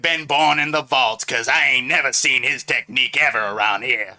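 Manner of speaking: comedian-style riff, lightly put on; Cat Williams. Comedian joking about a vault dweller, lightly put-on voice. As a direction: riff with a hint of a stand-up comic. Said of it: "He sounds like Cat Williams".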